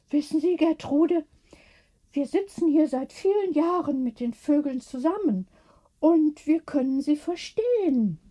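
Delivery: half-whispered secret about the crows; sister confiding. A narrator's reading.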